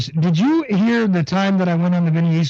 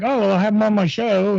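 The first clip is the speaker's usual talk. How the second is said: higher, lightly imitated host; Vinny Eastwood; 5 semitones higher than usual. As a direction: quote him in a slightly put-on voice. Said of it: "and was like".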